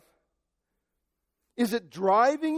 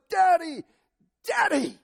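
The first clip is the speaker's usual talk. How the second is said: put-on higher, louder childlike cry; crying out to Daddy; 10 semitones higher, 5 dB louder than usual. Believer crying out to God as a child, loud plea. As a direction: call out longingly to a father. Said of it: "I just want to cry out to him".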